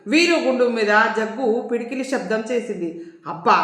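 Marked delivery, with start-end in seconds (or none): 3.3-3.6 lower-pitched cry of pain; a mild pained "ow". A narrator's reading. Veeru rapped on his shaved head, pained. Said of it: "బాధగా గుండు మీద చేతులు పెట్టుకున్నాడు".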